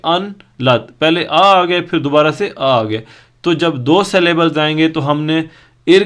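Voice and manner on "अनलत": "अनलत" broken after अन; split into syllables. Shown as a demonstration. Teacher counting syllables, "अनलत" split into अन and लत. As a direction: say अन and लत as separate beats. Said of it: "यानी दो syllable बन रहे हैं".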